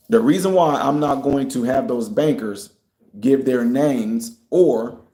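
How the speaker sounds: measured, deliberate pace with pauses; slow down and space out the phrases; deliberately slow. Real, not acted. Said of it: "I'm trying to talk slow".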